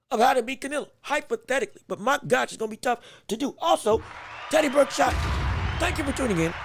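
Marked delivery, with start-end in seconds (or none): 3.6-6.5 excited call-out. Real, not acted. Greeting a viewer in chat.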